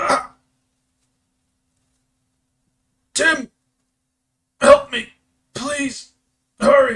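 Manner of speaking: shrill, desperate, drawn-out pleading, very high and loud. Voicing a bandit leader whose voice fills the space: bandit leader crying for help. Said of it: "the voice of the bandit leader just, like, fills the space".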